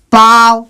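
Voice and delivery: "पाव" held long alone; drawn-out "पाव", apart from the rest; isolated syllable. Shown as a demonstration. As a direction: stretch "पाव" as the first syllable. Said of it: "पावर".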